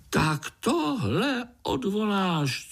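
very high, slow, strained cry; choked, high furious insect; struggling fly's demand. A narrator's reading. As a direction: demand it while thrashing in the web. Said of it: "cukal se mušák".

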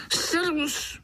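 high, ringing call from afar; a bright Slovak hail; hollered greeting. Acted. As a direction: holler it out cheerfully. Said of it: "zahalekal znovu ten cizinec".

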